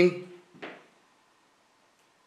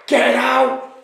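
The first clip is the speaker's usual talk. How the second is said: ghost voice; 7 semitones higher than usual. Acted. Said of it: "but in a faint, ghostly voice".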